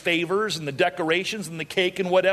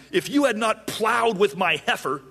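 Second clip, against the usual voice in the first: high-pitched, hammed-up outrage; angry; 6 semitones higher than usual. Samson accusing the groomsmen who solved his riddle, angry. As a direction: rail at them in mock fury. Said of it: "he's angry".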